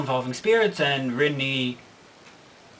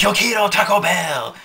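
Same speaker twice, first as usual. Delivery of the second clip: Taco Bell chihuahua; 5 semitones higher, 6 dB louder than usual. Acted. Demonic chihuahua bursts into class.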